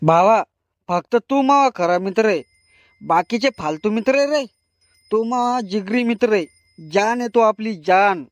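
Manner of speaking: put-on drunk affection. Drunk friend gushes affection.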